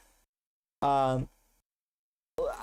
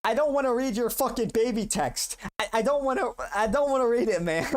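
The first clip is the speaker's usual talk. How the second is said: raised voice, high and loud; loud refusal; 10 semitones higher, 3 dB louder than usual. Real, not acted. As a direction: protest loudly, almost whining. Refusing to read donation text.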